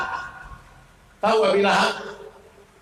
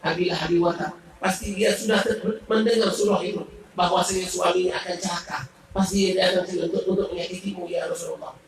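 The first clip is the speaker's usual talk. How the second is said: sad worry; faster than usual. Acted. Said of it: "Abu Bakar sedih".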